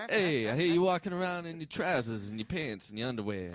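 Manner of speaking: mock Boston neighbor voice; put-on Boston accent. Neighbor's brother complaining about the underwear, put-on Boston accent. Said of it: "Now we're in Boston".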